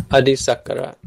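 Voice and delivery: "Adisakara" with the weight on sak; stress on SAK. Shown as a demonstration. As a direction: punch the sak in "Adisakara", short ka after it. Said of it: "stress goes on sak".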